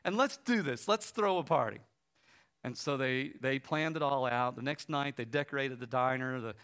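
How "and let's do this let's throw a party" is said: retold excitement. Woman rallies others for party.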